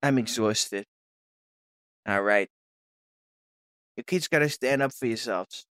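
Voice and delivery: low, soft, exhausted father figure; weary dad. Acted. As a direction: drag it out like a worn-down dad.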